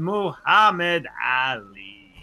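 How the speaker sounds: slow drawn-out name call; ring announcer. Retold or imitated.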